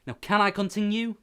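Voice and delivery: high exasperated question. Acted. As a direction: press for patience, high. Narrator exasperated.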